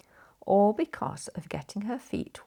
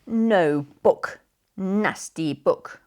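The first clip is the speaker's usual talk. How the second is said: sulky refusal; 6 dB louder, much slower than usual. Acted. Sister grumbles at mother's offer.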